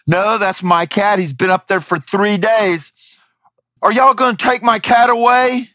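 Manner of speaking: high, pleading mock voice of an upset man; distressed cat owner. Man on the sidewalk claiming the cat, mock high-pitched protest.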